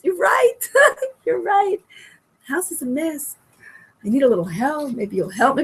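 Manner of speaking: acted nice wife, giving in with a little laugh; really nice. Wife answers husband's complaint about the mess, really nicely. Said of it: "she's, like, really nice about it".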